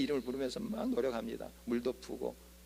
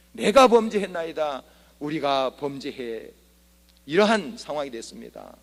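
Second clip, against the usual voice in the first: fervent confession; 7 dB louder than usual. Acted. Acted repentance prayer in sermon.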